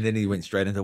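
usual speaking voice

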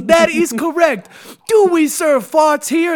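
high, loud, slow stern shout; head chef quizzing his kitchen staff; drill-sergeant chef. Pretend. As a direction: hammer each word at the staff. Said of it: "he goes".

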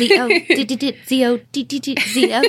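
spoken morse code. Pretend. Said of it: "reading it like Morse code".

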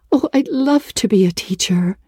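breathless whisper of longing; whispered wish. A narrator's reading. Anne whispering her wish to Marilla. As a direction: say it like a secret dream.

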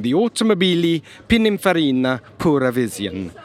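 put-on playful Italian accent on the name. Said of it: "I've been working on my Italian accent".

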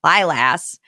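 slow, exaggerated Northeast Ohio vowels; Northeast Ohio accent. Shown as a demonstration. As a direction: lean into the Northeast Ohio flat a. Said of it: "that's the Northeast Ohioan in me".

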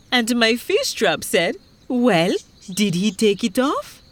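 mildly worked-up complaint; agitated fisherman. Acted. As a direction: chime in with a touch of alarm. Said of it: "the fisherman said".

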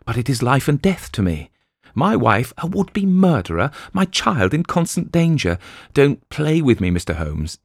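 lightly voiced husband begging Holmes; desperate plea. A narrator's reading. Ferguson pleads with Holmes.

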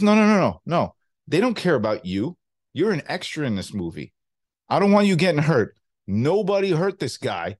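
protective De Niro, firmly insisting; De Niro impression. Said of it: "That was a good De Niro".

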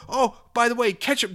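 high-pitched mocking quote; mock casual aside. Listener slips ketchup into a nice letter, mocking. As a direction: toss it in high, like a gleeful betrayal. Mocking the writer's sudden betrayal.

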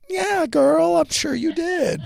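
high mock-sarcastic yeah girl. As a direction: drawl it with disbelief. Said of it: "I'm always like".

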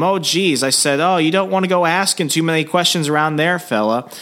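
friendly Minnesota local telling them to back off; Minnesota accent. Retold or imitated. Bartender warning, Minnesota voice.

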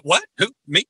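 playing dumb, what who me; mock innocent. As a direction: act like you know nothing. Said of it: "I play it all over".

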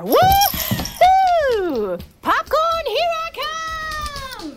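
high, gleeful cheer; excited whoop. Acted. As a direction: whoop like a freed dog. The dog runs free.

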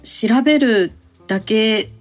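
ordinary delivery

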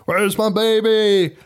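slow, high-pitched mock wail; hammed-up mother's wail. Podcaster mimics film mother demanding baby, high hammed-up wail.

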